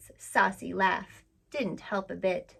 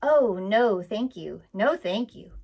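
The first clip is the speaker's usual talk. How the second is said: alarmed cry; 7 dB louder, slower than usual. Acted. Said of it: "cried Suki".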